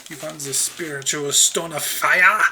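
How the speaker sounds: lightly put-on German accent; a hint of German on an in-game character. Game character offering the spiritual stone, in a lightly put-on German accent. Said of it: "I suddenly made him German".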